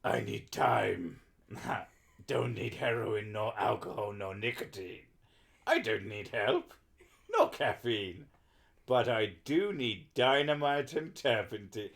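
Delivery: lightly put-on German accent reading English lyrics; measured delivery with a hammy German accent; mock German accent. Streamer reading translated song lyrics aloud, mock German accent. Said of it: "my great German accent".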